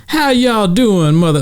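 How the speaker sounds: high, drawn-out hype-man greeting; very amped up. Retold or imitated. New York comic opening the showcase, imitated as very amped up. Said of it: "like, very amped up".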